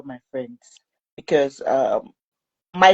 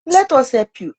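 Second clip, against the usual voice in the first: retold urgent offer; 7 semitones higher, 5 dB louder than usual. Cousin's urging during the struggle, retold.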